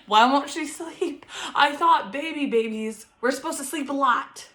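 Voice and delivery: high-pitched, bewildered complaint; exasperated new mom, half laughing; retold exasperation. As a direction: wail it in mock despair. Exasperated new mother's thoughts.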